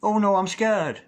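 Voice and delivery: high, slow, hammed-up fearful wail; mock scared. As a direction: imitate someone timid, drawing it out. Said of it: "And you are going".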